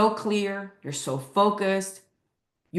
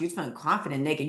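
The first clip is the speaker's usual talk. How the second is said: quicker repeat; faster than usual. Shown as a demonstration. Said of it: "Oh my gosh".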